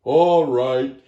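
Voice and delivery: Gila Monster voice. A narrator's reading. Lizard relenting to the chipmunk, gruff and loud. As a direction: grant it with weight. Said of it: "your scary Gila Monster voice".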